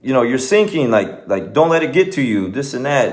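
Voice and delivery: mock yell. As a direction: imitate yelling at a horse without real volume. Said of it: "he's, like, yelling at his horse".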